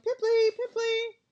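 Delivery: long, high, loud taunting yell. A narrator's reading. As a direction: jeer after her.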